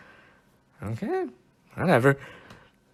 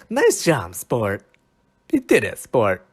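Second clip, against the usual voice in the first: cheery coach praise; 4 dB louder, slower than usual. Pretend. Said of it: "is it saying".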